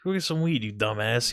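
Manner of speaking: teasing a friend about his drug use; mock scolding. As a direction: rib a friend, half joking. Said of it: "I was like".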